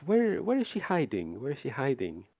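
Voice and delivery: put-on high, pressing search for the girl; vampire lord demanding. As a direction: demand to know where she hides. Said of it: "looks around the mansion and says".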